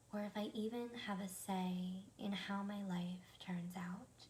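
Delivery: slow, measured phrases with reflective pauses; meditative affirmation. Acted. Meditation teacher sharing tonight's thought with the group, slow and contemplative. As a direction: recite it gently for listeners to repeat. Recites the evening's positive thought.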